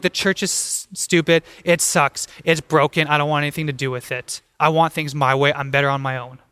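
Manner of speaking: low-pitched, mildly disgruntled complaint; frustrated grumbling. Acted. Churchgoers complaining about the church, mildly frustrated. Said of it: "being frustrated, and being like".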